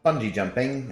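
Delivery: imitating someone's attempt at a New Zealand accent; lightly attempted Kiwi accent. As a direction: have a rough go at New Zealand vowels. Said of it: "New Zealand accent".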